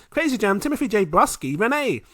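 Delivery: high, loud hype announcer reading names; shout-out roll call. Real, not acted. Host thanking patrons on a long list, hyped roll call. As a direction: belt out each name like a roll call.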